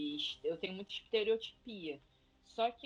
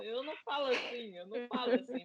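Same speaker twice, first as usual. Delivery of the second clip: imitated high voice; 4 semitones higher, 4 dB louder than usual. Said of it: "minha voz é grossa".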